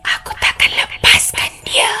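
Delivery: high, breathy ghostly whisper; eerie whisper. Retold or imitated. Ghost whispering in Mira's ear during the blackout, eerie whisper. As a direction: hiss it like an unseen spirit in the dark. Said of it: "ada orang bisik".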